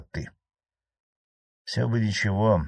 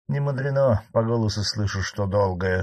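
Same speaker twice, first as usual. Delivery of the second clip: smirking; 3 semitones higher than usual. Acted. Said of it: "с ухмылкой".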